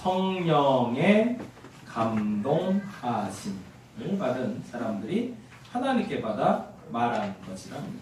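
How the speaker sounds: very slow delivery, one word at a time.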